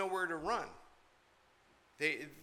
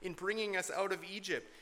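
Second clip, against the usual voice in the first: mock obnoxious complaint; 4 semitones higher than usual. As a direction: sneer it at Moses like a whining crowd. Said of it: "obnoxious sort of comment to Moses".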